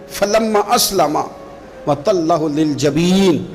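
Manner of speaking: slow, drawn-out melodic recitation; measured Quranic recitation, stretched vowels. Acted. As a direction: chant the verse slowly. Quranic verse recited again.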